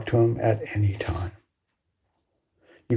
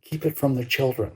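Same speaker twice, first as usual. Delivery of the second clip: a quick, softer adult murmur, a touch hushed; hushed voices; 5 dB quieter, faster than usual. Retold or imitated. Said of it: "death and hushed voices".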